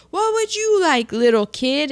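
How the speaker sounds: a hint of a booming Santa; Santa asking. Santa asks dazed Ralphie on his lap, lightly voiced. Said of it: "it's like".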